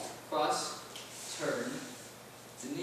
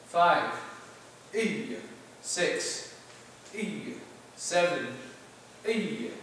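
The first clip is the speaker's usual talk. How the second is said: sharp martial arts commands; 3 semitones higher, much slower than usual. Real, not acted. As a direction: call each count crisply. Counting the drill.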